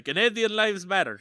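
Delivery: put-on lightly hammy Russian accent; a quick jokey Russian accent. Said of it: "I don't know why I did that in Russian".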